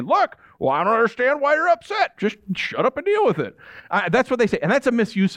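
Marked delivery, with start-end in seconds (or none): 0.0-3.6 higher, impatient brush-off; dismissive mock. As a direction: sneer it like a callous Christian. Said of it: "people will throw this out".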